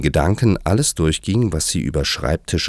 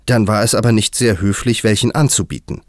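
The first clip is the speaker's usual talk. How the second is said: higher, louder, cross reproach; indignant, raised-pitch anger; angry; 5 semitones higher, 5 dB louder than usual. A narrator's reading. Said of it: "sagte Alice zornig".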